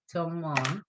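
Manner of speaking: TUMON with both syllables sounded out; two syllables. Shown as a demonstration. Teacher proving the word has two syllables, measured beats. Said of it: "So it's two syllables".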